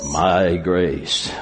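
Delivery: low, deep, divine-sounding voice. Speaker with a Portuguese interpreter, quoting God: God's voice. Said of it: "I like to do God's voice".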